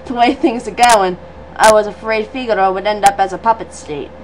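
put-on low, half-hearted Australian accent; low voice drifting off Australian; semi-Australian accent. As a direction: read it in a shaky attempt at Australian. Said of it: "He was semi-Australian".

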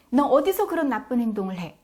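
loud accusing parental question; acted sharp rebuke; wrong-way scolding. Shown as a demonstration. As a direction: demonstrate an angry parent telling off a child. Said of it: "라고 말하는 게 아니라요".

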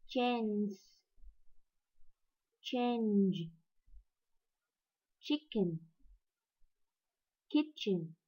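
each word pronounced clearly, slowly; English ch sound. Shown as a demonstration. Teacher models the ch words for students. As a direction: model the ch in chair, teacher, lunch. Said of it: "Ví dụ".

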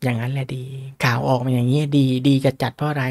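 normal talking voice

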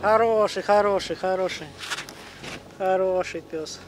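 мягко, как с собакой; хвалит пса нежным голосом; ласково с собакой. Real, not acted. (ласково хвалит пса)

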